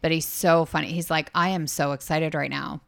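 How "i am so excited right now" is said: monotone. Retold or imitated. Showing cohost how the captain says he's excited, monotone. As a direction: say it in an unexcited monotone. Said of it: "but it'll just be monotone".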